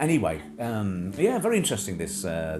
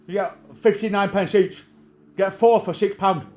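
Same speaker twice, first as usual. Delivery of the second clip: high, loud crone retort; mock crone, high and loud; imitating old crone; 10 semitones higher, 8 dB louder than usual. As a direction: bark it back like the batty shop lady. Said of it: "'cause she's bonkers, she might say".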